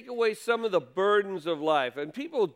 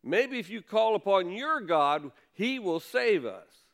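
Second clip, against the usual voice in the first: captain rousing a sleeping Jonah, mild raised call; retold yell; 3 semitones higher than usual. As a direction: call him awake, half-acted. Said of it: "comes and he yells at him".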